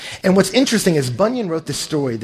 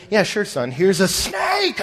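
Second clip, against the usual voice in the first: mock cheerful dad; 4 semitones higher than usual. Absurd father handing son snake.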